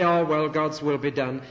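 mock-resigned shrug of a sigh, stress on "will". Preacher mimics people who accept it as resignation. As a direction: say "God's will be done" as if giving up. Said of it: "accept it with resignation".

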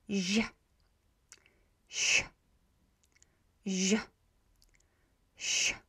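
"Zh" buzzed then "sh" hissed, alternating; practice drill. Shown as a demonstration. Teacher leading the learners through a drill. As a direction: drill voiced against unvoiced. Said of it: "So let's practice".

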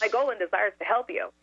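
practised sugary politeness; syrupy sweet. Retold or imitated. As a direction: deliver the scripted line sweetly. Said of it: "the most syrupy, sweet voice".

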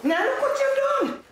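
very high, wailing reproach; anguished blame. Acted. Mother blaming her son mid-quarrel, anguished high cry. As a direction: cry out the accusation.

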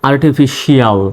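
আর্টিফিশিয়াল with a firm "sh" in "shial"; firm "sh" sound. Shown as a demonstration. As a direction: press the "sh" in আর্টিফিশিয়াল, not "s". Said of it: "একটু শক্তভাবে".

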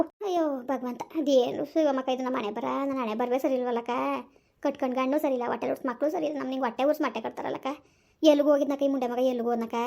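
understated, sinking wail over fate; a touch of despair; mild lament. Acted. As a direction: lament wearily to a neighbour. Parent laments fate and missing son.

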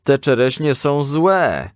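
high, slow complaint, lightly called; boy's drawn-out complaint to his mother; calling out. A narrator's reading. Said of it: "zawołał, gdy mama weszła do kuchni".

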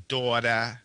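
Long Island "daughter" with a long aw; New York accent. Shown as a demonstration. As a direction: round the A in "daughter" into a drawn aw. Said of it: "it becomes very strong".

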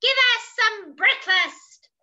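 loud, high elephant demand; crying out. Acted. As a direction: call out hungrily with big volume. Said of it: "cried the elephants".

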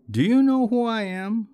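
put-on high, loud drunken indignation; drunken young man. A narrator's reading. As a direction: demand recognition like an offended drunk. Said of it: "the drunken young man asked".

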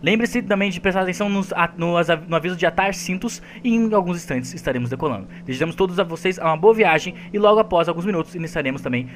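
mock cabin-crew announcement voice; flight announcement. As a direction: read it like a flight attendant on the intercom. Anúncio de bordo encenado. (anúncio de comissário de bordo)

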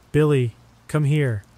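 high urgent call; frantic mother shouting for her son; mom screaming. A narrator's reading. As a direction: call the boy in a panic. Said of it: "Mom began screaming".

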